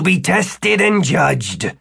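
high, drawn-out proclamation; booming summons. Acted. Wizard summons to be judged, slow high proclamation. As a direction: proclaim it slowly in a high, formal voice. Formal summons announced in a story.

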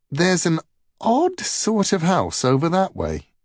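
high, puzzled trickster voice; sly Loki voice. A narrator's reading.

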